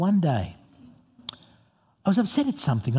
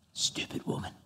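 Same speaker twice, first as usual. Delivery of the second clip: whispered under the breath, much softer; whispered insult; 13 dB quieter than usual. Retold or imitated. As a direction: hiss it to yourself in the car. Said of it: "I whisper under my breath".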